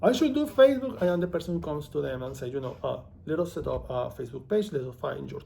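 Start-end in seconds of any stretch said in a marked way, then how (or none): 0.0-1.0 clueless client. Retold or imitated. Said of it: "and they're like".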